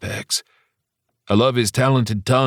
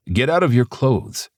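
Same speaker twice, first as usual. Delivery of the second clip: weak demand; 6 semitones higher than usual. A narrator's reading. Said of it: "he demanded weakly".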